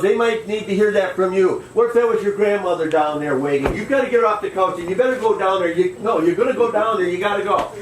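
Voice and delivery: high, fast, pushy nagging; insistent urging. Retold or imitated. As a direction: push him out the door. Wife urging him to go.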